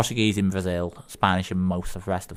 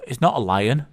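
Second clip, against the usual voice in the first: higher-pitched, lightly voiced landlord objecting; mock alarm, pitch jumping up on the protests; protesting landlord; 4 semitones higher than usual. Landlord calling after a drunk customer, lightly acted protest. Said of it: "landlord goes".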